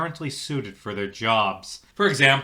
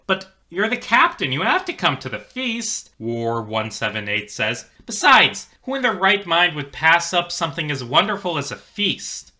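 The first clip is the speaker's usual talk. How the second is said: put-on much higher, insistent older cook; high pressing voice; 7 semitones higher, 4 dB louder than usual. Older cook urging the captain, high and insistent. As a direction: push him to come, pitched way up.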